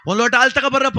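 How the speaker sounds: high, loud acted order; calling out. Dasappa ordering a glass of milk, calling out. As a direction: call across to the crowd.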